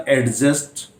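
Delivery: एडजस्ट with the D sounded before the J; common mispronunciation. Shown as a demonstration. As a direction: say "ad-just" with an audible D. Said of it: "इन शब्दों का उच्चारण गलत".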